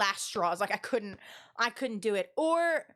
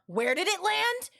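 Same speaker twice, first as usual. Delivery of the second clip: teasing callback; 7 semitones higher, slower than usual. Retold or imitated. Coworker's teasing headset callback.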